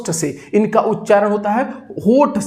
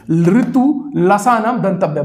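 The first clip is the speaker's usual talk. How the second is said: slow, even chant of the sutra; slow classroom chant; slow recitation. Shown as a demonstration. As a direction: recite it slowly for students to repeat. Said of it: "बोलते जाइए मेरे साथ".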